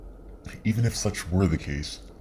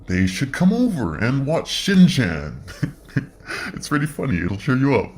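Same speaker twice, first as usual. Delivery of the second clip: put-on Kiwi accent; 7 semitones higher, 6 dB louder than usual. Suggesting a Shin-Chan visit to a scared friend in a playful Kiwi accent. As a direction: put on a cheery Kiwi accent, giggling through it. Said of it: "in a Kiwi accent".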